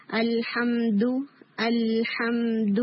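الحمد recited slowly with a clean, airless final 'du'; one strong hit. Shown as a demonstration. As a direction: hold each syllable of الحمد, strike the d firmly. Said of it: "imprisonment of sound، ایک strong ہٹ".

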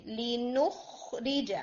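slow لِنُخْرِجَ with a firm خ; strong kha. Shown as a demonstration. Teacher demonstrating a strong kha, slow. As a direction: press the خ of لِنُخْرِجَ. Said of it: "خو کو بھی strong رکھیں".

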